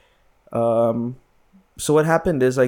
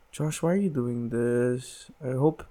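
imitating sad mom; 4 dB quieter than usual. Son voices tearful mom.

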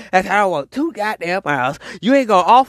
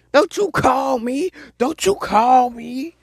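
scolding; 7 semitones higher, slower than usual. Acted. Scolding imagined caller.

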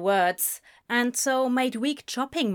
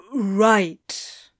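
groggy reluctant agreement; 5 dB louder than usual. A narrator's reading. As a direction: agree while still taken aback. Crowley uneasily agreeing after being woken.

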